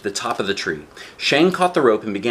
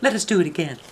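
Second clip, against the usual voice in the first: put-on little girl voice; 9 semitones higher, faster than usual. Dao offers help to the wolf, high girl voice. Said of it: "Dao said".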